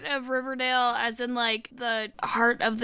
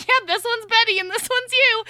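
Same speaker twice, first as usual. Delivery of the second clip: mocking impression; 10 semitones higher, 4 dB louder than usual. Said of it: "was like".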